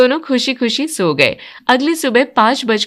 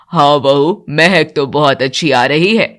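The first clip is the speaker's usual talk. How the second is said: lower, approving elder voice; mother-in-law; 8 semitones lower than usual. Acted. Mother-in-law answering the new bride, lower voice. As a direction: praise lightly as the house matriarch.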